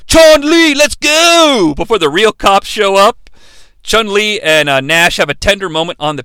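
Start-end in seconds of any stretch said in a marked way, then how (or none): 0.1-1.7 high, louder hurried call; mock urgent call. Nash calling Chun-Li before the cops arrive, urgent call. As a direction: call her to leave fast. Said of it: "Nash is like".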